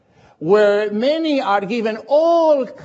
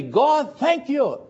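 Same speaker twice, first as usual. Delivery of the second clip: spontaneous thanks; slower than usual. Shown as a demonstration. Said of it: "spontaneously we shall say".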